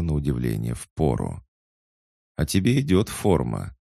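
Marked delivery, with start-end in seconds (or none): 2.4-3.8 lightly sarcastic, higher-pitched compliment. A narrator's reading. Girl teasing a woman about her uniform, sarcastic. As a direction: lift it into a mock compliment. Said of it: "саркастически заметила Маша".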